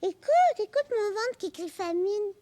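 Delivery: high, loud, insistent call; excited little command; eager urging. Acted. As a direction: grab the listener's attention eagerly. Child urges mother to listen.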